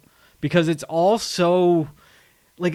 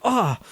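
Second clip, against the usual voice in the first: higher-pitched mock "ah" of pain; imitated pained cry; 6 semitones higher than usual. Cop who hit his head on the wall, mock pained. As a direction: cry out as if bumped, in jest.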